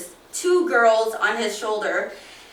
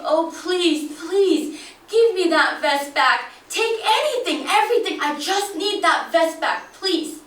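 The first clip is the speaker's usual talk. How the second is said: put-on crying old man; 6 semitones higher, 3 dB louder than usual. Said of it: "He's crying. He's saying".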